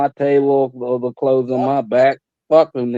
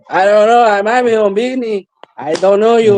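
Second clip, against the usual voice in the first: put-on old shopkeeper voice; 5 semitones higher than usual. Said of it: "Papa come out of nowhere".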